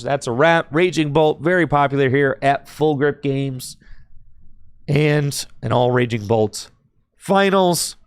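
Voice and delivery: hoarse, voice wearing out; hoarse from a lingering cold. Real, not acted. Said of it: "And you can tell I'm losing my voice".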